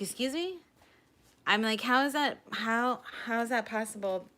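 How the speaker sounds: can't believe what the nurse just said; shocked disbelief. Retold or imitated. Told the nurse she's positive, she reacts in high, shocked disbelief. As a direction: pitch jumps high in stunned disbelief.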